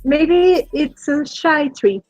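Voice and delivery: normal talking voice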